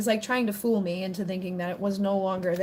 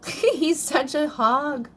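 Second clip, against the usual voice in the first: slow, laughing fond complaint; 5 semitones higher, much slower than usual. Real, not acted. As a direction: laugh it out at the pet. Laughing at the dog.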